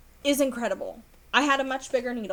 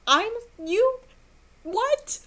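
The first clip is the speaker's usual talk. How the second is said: much higher and louder, stammering with joy; elated disbelief; 11 semitones higher, 6 dB louder, much slower than usual. Retold or imitated. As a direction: squeal it out, can't believe it. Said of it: "I was just elated".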